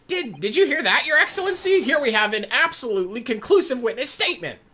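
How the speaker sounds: high-pitched, theatrical triumph; excited courtroom advocate. Acted. Appealing to Your Excellency about the witness, excitedly triumphant. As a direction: swoop up high, crowing with excitement. Excited character addresses the judge.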